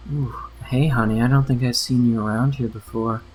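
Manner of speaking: breathy flirty barmaid; sultry voice. Acted. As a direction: purr it like a flirt. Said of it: "she says in a sultry voice".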